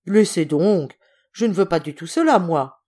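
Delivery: mildly gruff protest; irritated dismissal. Acted. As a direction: brush the excuse aside crossly. Irritated general refuses the excuse.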